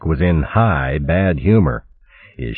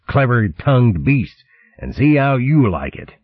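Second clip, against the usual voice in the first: higher, sarcastic pirate tirade; scornful fox captain; 6 semitones higher than usual. Acted. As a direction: wash your hands of the ship. Chopsnout refuses command.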